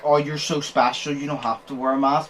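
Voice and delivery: imitated mock-indulgent sarcasm; lightly sarcastic, as if granting a favour. Telling a customer he is so special, sarcastic. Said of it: "No, like, sarcastic".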